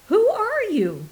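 high, loud shout of alarm; demanding shout at the unseen intruder. Acted. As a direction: yell it at the intruder. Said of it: "he shouted".

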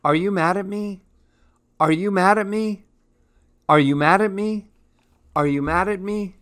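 high, worried question each time; anxious refrain. A narrator's reading. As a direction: plead it in a high voice. Anxious refrain repeated all day.

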